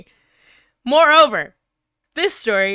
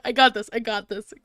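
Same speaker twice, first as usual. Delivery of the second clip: usual speaking voice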